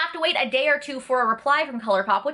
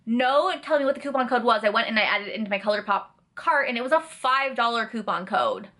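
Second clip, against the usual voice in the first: ordinary talk, nothing marked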